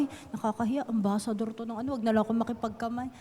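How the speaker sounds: mock a timid person backing away from a handshake; shy mumble. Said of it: "Bakit ka mahihiya na parang". (mahiyain at mahinang bulong sa sarili)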